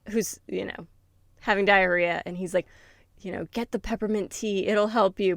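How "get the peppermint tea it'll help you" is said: put-on light Russian accent; lightly put-on Russian accent. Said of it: "but, like, with a Russian accent".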